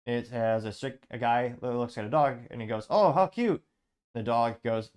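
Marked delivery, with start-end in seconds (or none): 2.9-3.6 high, loud mock-adoring exclamation; gushing dog admirer. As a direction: play the comic-strip guy gushing over a dog. Voicing comic-strip guy admiring dog.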